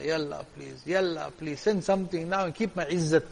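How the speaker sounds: soft, low imitated supplication; pleading dua. The wali asks Allah for money to pay creditors, pleading softly. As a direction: quietly beg as the indebted wali would. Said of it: "he's making dua to Allah".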